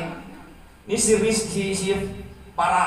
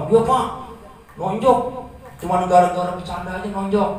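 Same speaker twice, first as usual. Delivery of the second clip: upset student complaining; 3 semitones higher, 3 dB louder than usual. Retold or imitated. Student complaining, voiced by teacher.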